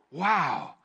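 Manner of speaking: upbeat mock cheer about a fish fry; casual excited Peter. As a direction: play him as a careless fisherman cashing in. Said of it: "he doesn't just go".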